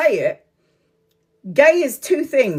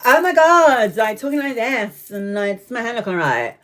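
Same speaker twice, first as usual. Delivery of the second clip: camp cousin impression. Imitating her gay cousin fussing, a hint of camp. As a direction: mimic a flamboyant cousin fussing over hair. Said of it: "It's like".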